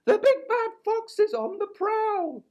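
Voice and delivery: very high, urgent owl voice; high hooting owl voice; owl's warning. A narrator's reading. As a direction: sound the alarm like a frightened owl. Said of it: "cried Owl".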